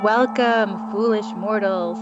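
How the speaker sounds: slow, drawn-out spooky ghost host welcome; lightly hammed-up haunted house host; slow theatrical villain menace. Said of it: "I just got a little carried away".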